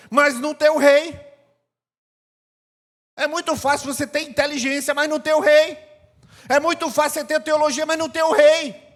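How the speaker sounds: preaching at full force. Acted. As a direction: build each line up to the king. Preacher building a repeated refrain.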